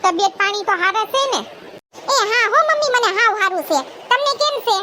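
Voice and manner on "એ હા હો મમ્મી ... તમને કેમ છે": put-on a slightly higher girlish voice greeting mother; daughter's voice. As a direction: greet your mother like a shy young daughter.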